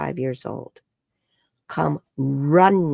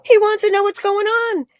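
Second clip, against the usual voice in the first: much higher, eager retelling; excited quote; 6 dB louder than usual. Retold or imitated. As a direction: bubble over with the news. Quoting client relaying therapist.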